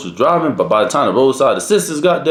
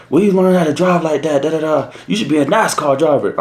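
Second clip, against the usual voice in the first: lightly put-on higher officer voice; raised pitch, mock-impressed questioning; impressed trooper imitated; 5 semitones higher than usual. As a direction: imitate an officer marvelling at the driving. Teller imitates admiring trooper.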